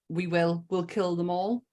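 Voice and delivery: hushed, soft vow said aloud; a mother's soft vow, barely above a whisper; half-whispered vow. Retold or imitated. A mother cradling her son, quietly vowing revenge, softly. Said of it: "like she wants to whisper it".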